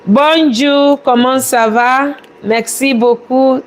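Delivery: French greeting in a learner's accent. Real, not acted. Chef welcomes a French-speaking viewer, accented French. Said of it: "very nice French accent".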